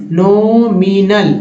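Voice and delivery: नॉमिनल drawn out slowly, no-mi-nal; slow syllable demo. Shown as a demonstration. Teacher repeating a word for learners, slow syllable demo. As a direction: stretch each syllable of नॉमिनल.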